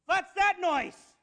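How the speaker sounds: loud, slow astonished question; amazed shout. Acted. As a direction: stretch it out, dumbfounded and loud. Oli amazed by engine.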